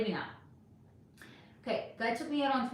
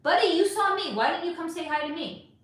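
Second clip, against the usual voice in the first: higher, louder indignant comeback; answering the guy who texted, higher and indignant; indignant retort; 5 semitones higher, 3 dB louder than usual. Real, not acted. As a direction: throw his words back at him, higher and indignant. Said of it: "Sorry for ranting".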